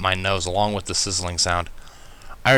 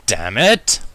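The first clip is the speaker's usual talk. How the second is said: angry shout; 4 dB louder than usual. Acted.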